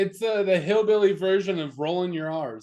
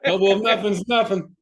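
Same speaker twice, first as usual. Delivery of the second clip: laughing; 3 semitones higher, 5 dB louder than usual. Real, not acted.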